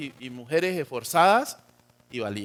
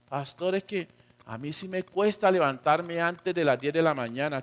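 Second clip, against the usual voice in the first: softer, mock excuse-making voice; reluctant churchgoer; 3 semitones lower, 6 dB quieter than usual. Churchgoer tells pastor getting up early is hard, mock reluctant. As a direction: make a meek excuse, lightly acted.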